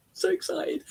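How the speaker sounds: high, hushed whisper; excited whisper. Real, not acted. Medium thrilled by the twenty-three weeks news, excited whisper.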